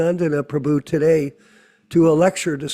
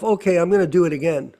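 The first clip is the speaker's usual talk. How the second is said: resigned resolve; faster than usual. Retold or imitated. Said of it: "you have to say to yourself".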